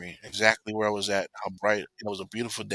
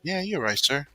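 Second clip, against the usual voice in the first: eager agreement; 6 semitones higher than usual. Retold or imitated. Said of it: "And I said".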